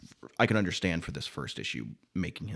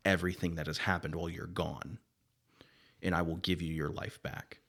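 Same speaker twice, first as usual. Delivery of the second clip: solemn spirit messenger. Acted. Voices Zeb's speech to Johnny.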